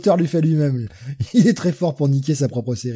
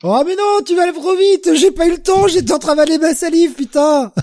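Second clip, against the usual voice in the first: high-pitched protest; 6 dB louder than usual. Real, not acted. Protests the joke came too fast.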